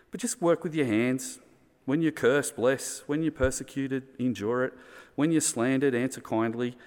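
rally the listeners to bless back; urgent exhortation. Acted. Urging the church to act.

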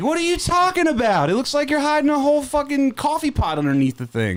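roast him with rising glee; excited roast. Real, not acted. Roasting friend over hat.

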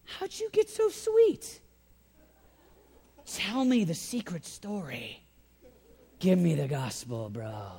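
hammed-up starry-eyed seeker; a hint of a sweet-talking admirer; mock admiring stranger. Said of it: "Nobody looks and goes".

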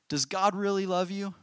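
high-pitched, sly serpent question; tempting snake in a high voice; insinuating serpent. A narrator's reading. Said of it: "the serpent whispered".

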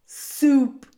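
high, loud moan; tearful rat's wail. A narrator's reading. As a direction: moan the word with longing. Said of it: "moaned Roscuro".

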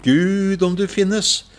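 high-pitched desperate plea into the dark; crying out. Retold or imitated. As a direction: call out like someone at the end of their strength. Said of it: "jeg roper ut i mørket".

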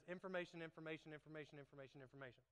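mock droning teacher, trailing off; lightly voiced teacher reciting, fading away. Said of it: "the teacher says".

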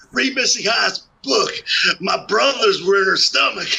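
shouting through laughter; laughing. Real, not acted. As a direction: crack up mid-joke. Joke dissolving into laughter.

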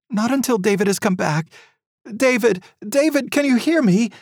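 mother keeps calling her son below, calling. A narrator's reading.

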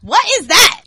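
high, baffled mock voice; dumb classmate voice. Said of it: "And this stupid senior".

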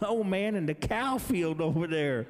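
lightly imitated Ozark drawl pointing to the field; Ozark accent. Parking boss directing him to the cow field, Ozark accent. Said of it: "like that".

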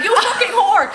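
mock angry shout; retold shouting. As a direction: bark it out while half laughing. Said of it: "schreeuwde hij".

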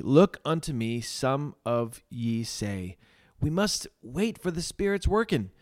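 lightly acted earnest pulpit appeal; lay preacher. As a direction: preach it with emphasis, drawing out key phrases. Reads the preacher's sermon in character.

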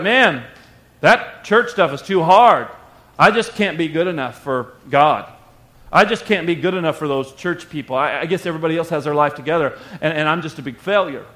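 a low, deflated voice giving up on church; discouraged believer. Retold or imitated. Preacher voicing a failing Christian, low and deflated. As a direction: sigh it out like a worn-out churchgoer. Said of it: "You're gonna be like".

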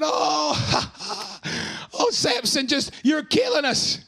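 laughing through the taunt; mocking crowd cracking up; mock laughter. Crowd laughing at Samson, a mocking laugh. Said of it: "And they were laughing".

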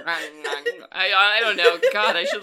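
loud laugh through the words; laughing hard while talking. Real, not acted. Laughing at own camel noise.

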